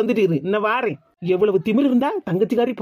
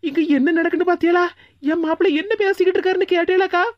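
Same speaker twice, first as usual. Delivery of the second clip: put-on higher, urgent appeal to the older sister; excited calling out; 5 semitones higher than usual. Wife urging her sister-in-law to listen, excited. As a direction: rush it out, amazed.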